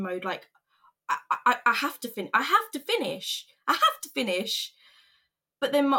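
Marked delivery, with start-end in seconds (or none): 1.1-4.7 retold panicky repetition, rising in pitch; stuck, insistent. Worker frozen, told to leave the job, frantic insistence. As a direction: stammer into higher, urgent insistence.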